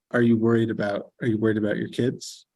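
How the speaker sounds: rising question intonation; worried question, rising at the end; question tune. Shown as a demonstration. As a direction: ask it as a question, voice going up at the end. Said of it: "turning our inflection down at the end".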